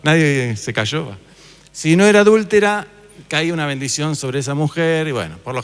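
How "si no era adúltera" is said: "era" pushed higher and louder, held long; stress on era. Shown as a demonstration. To the class, the key condition stressed on "era".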